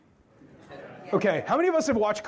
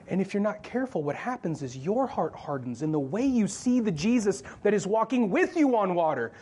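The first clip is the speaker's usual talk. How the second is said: usual speaking voice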